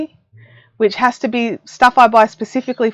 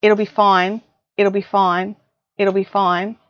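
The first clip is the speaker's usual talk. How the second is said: imitating husband; 3 semitones lower than usual. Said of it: "king of the".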